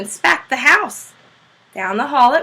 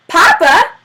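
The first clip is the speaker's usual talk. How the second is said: loud, higher excited call of Papa!; children shouting; 6 semitones higher, 8 dB louder than usual. A narrator's reading. Janie and Bill shout to their father, loud and high. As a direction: shout it like kids bursting in. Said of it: "they shouted together".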